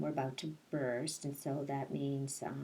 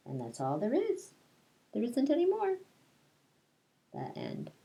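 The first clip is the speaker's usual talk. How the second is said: put-on reading a picture book aloud to children; lilting read-aloud, rhyme by rhyme; storytelling voice; 3 semitones lower than usual. Teacher reading Madeline to her class, storytelling voice.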